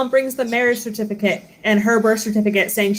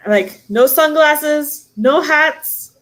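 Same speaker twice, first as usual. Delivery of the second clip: dad coaching; 6 semitones higher, 4 dB louder, much slower than usual. Retold or imitated. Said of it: "my dad would be like".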